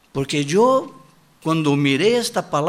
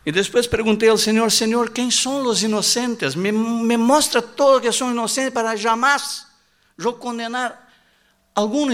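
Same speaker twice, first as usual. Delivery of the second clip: raised urgent plea; fervent preaching; 7 semitones higher than usual. Acted. Preacher begging God to show the innocent, raised and urgent. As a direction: climb in pitch as you beg God.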